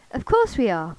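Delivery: loud, joyful confirmation; jubilant. A narrator's reading. Suitor confirming his beloved's identity, loud and jubilant. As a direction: burst out with delight. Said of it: "Michael said jubilantly".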